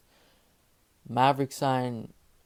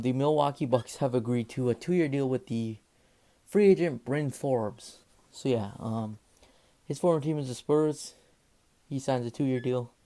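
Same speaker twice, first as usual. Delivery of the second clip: out of breath. Real, not acted. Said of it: "I just had to catch my breath there".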